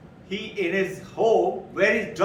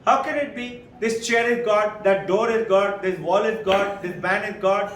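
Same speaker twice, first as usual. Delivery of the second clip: incredulous protest; 4 semitones higher, 4 dB louder than usual. Retold or imitated. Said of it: "He said".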